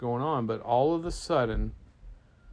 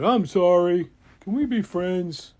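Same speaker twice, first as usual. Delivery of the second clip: higher, louder plaintive appeal; earnest, needy request; pleading apology; 5 semitones higher, 8 dB louder than usual. Acted. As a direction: plead like a lonely monster. Monster pleads for friendship.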